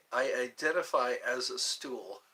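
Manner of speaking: reading through laughter; laughing reread. Real, not acted. Rereading the chat line while laughing. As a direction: giggle through the words.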